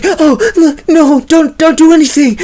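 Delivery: high, hushed warning; high scared girl begging the aliens to wait; scared plea. Acted. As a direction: freeze them with a frightened hiss. Raylan facing the aliens.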